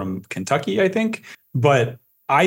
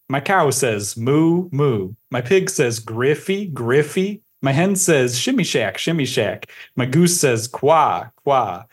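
measured sing-song nursery verse reading; poem recitation; 2 semitones higher than usual. Acted. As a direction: recite it line by line in a lilting rhythm. Reads the poem aloud.

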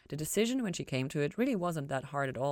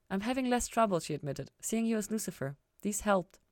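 a little higher, lightly voiced young woman; hint of a cheerful young woman; lightly voiced Ella; 5 semitones higher, 3 dB louder than usual. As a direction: give Ella a touch more lift. Ella's voice in story.

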